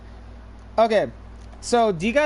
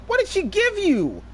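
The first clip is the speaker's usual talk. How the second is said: alarmed question; 10 semitones higher than usual. Retold or imitated. Narrator asks friend, alarmed.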